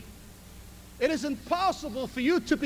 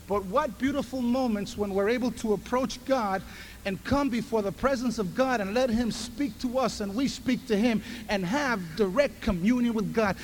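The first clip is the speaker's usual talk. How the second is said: ordinary delivery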